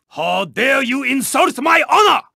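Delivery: high, affronted challenge; indignant outburst. Acted. Racer whose honor was insulted, high indignant outburst. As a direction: raise the pitch in theatrical indignation.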